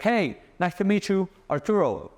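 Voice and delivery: pushed high, overeager greeting; too-eager pitch, the wrong way to greet a girl; overeager hello. Shown as a demonstration. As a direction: come on too strong. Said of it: "if it's a chick and you're like".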